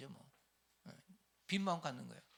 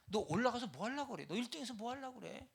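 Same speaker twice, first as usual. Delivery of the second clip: stern rebuke; 10 semitones higher than usual. Acted. Jesus rebuking disciple seeking top rank, stern scolding. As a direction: scold him for wanting first place.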